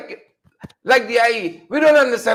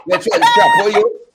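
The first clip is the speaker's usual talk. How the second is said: mock shrieked taunt; 4 dB louder than usual. Host mocking a politician's jab, in a shrieked mock taunt. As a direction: squeal the insult in mockery.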